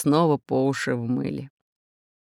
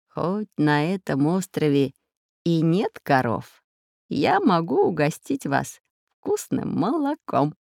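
sly. Acted. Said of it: "хитро подмигнул профессор Пыхтелкин".

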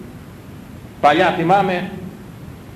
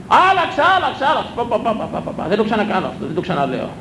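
high, hurried voice of a chastened mother; much higher pleading mother; mother repenting; 5 semitones higher than usual. Retold or imitated. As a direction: play the mother who swears she's learned her lesson. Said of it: "Της λέω, «Μήπως άλλαξες γνώμη;»".

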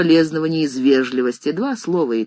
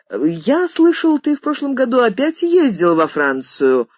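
lifeless voice; 9 semitones higher, 3 dB louder than usual. A narrator's reading. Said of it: "вновь раздался безжизненный голос".

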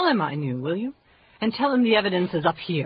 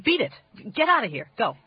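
angry. Acted. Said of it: "Why are you so angry?".

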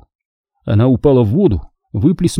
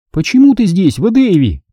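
light, high-pitched kindly question; friendly; 7 semitones higher than usual. A narrator's reading. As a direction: ask amiably, pitched up. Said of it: "спросила она доброжелательным голосом".

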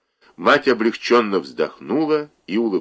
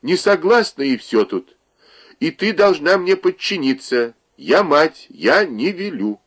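high, insistent mother's command; high indignant forbidding, slowing at the end; 9 semitones higher, 4 dB louder than usual. Acted. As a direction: put your foot down as the mother.

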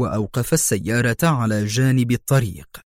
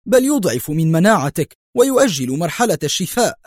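higher, insistent outcry; exclaiming; 6 semitones higher than usual. A narrator's reading. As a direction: contradict the patient heatedly. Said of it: "صاح الطبيب".

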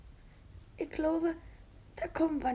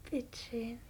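geflüstert; 5 semitones lower, 7 dB quieter than usual. Acted. Kind bittet flüsternd ums Vorlesen.

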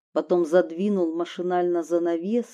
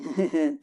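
soft laugh; 3 semitones lower, 4 dB quieter than usual. Acted. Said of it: "И засмеялся".

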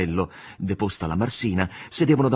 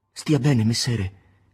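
a firm farewell said aloud; 3 semitones higher, 5 dB louder, much slower than usual. Acted. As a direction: say it out loud, steady. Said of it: "disse ad alta voce". (ad alta voce, con decisione)

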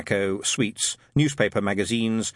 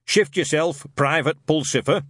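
higher, louder sergeant's bark; barked order; 6 semitones higher, 4 dB louder than usual. A narrator's reading. Shadwell barking at Newt from behind newspapers, loud. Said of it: "it barked".

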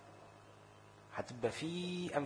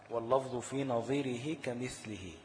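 poem recitation; slower than usual. Shown as a demonstration. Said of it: "لقول ابن الجزري رحمه الله".

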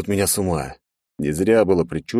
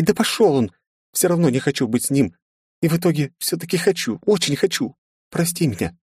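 put-on higher girlish voice, hurt and accusing; upset young princess; 9 semitones higher than usual. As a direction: blame him like a jealous girl. Princess confesses jealousy.

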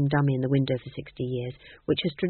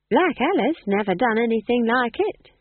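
a touch of eager encouragement, a little higher; encouragingly; 6 semitones higher, 4 dB louder than usual. A narrator's reading. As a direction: cheer her up gently. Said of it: "said Nanny encouragingly".

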